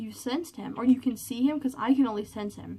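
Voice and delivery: ordinary delivery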